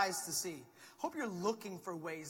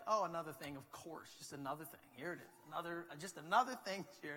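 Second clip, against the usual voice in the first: weary sigh; 2 semitones lower, 3 dB quieter than usual. Retold or imitated. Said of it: "we're both feeling a bit like".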